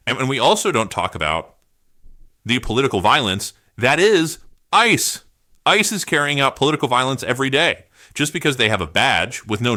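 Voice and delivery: building furious outcry; angry rant. Real, not acted. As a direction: hammer the word ice in anger. Furious rant about ICE.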